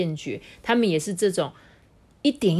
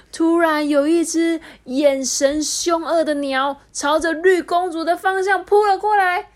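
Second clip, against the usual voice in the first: dramatic narration; 10 semitones higher, 5 dB louder than usual. A narrator's reading.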